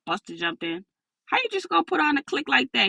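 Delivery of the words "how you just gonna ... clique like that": laughing. Acted. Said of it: "he said while laughing".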